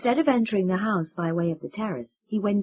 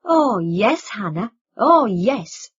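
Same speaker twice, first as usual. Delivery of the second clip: higher, louder sneering imitation of the wife; mocking mimicry; 3 semitones higher, 8 dB louder, much slower than usual. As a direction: mimic her pity with scorn. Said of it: "he mimicked her saying".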